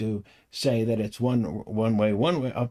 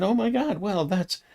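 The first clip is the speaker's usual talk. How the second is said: excited exclamation; 9 semitones higher than usual. Retold or imitated. Retold excited reaction.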